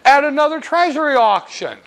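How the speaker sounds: a hint of a gossipy old clerk teasing the buyer; Mabel the treasury clerk. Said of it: "I'm Mabel".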